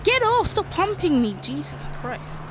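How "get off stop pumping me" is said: high loud yell; shouting. Real, not acted. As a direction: yell at them to get off. Yelling at opponent in game.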